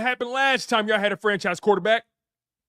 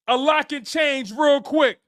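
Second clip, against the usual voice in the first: slow emphatic shout; slower than usual. Acted. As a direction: drive it home like a stern coach. Emphatic warning to fans.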